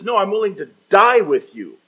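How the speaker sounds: high, loud, insistent vow; emphatic pledge. Acted. Peter pledging to die with Jesus, emphatic. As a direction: declare it forcefully, hitting the key word. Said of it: "he says it emphatically".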